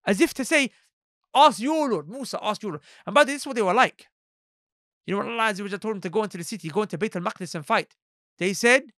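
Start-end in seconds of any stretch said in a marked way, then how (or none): 1.3-2.8 acted insolent order; dismissive demand. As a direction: throw the task back at him with disdain. Acts out their bad-mannered demand.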